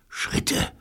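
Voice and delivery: tense hushed whisper. A narrator's reading. Neil to the others, hearing someone outside, whispered. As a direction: whisper it as if listening for danger. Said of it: "flüsterte Neil".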